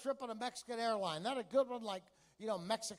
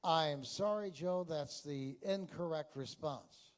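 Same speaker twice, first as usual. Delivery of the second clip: smug host; 5 semitones lower than usual. Retold or imitated. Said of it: "being his usual smug, intellectual self".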